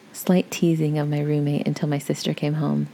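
ordinary delivery

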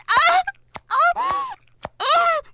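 loud, high climax cries; ecstatic cry. Acted. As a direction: let out sharp, high cries of release.

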